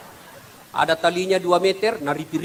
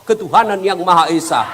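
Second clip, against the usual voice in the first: startled; 4 dB louder than usual. Acted. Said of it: "Kaget langsung dia jawab".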